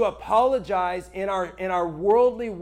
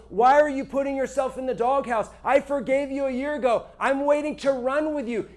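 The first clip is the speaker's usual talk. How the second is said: gentle pleading God; 6 semitones higher than usual. Retold or imitated.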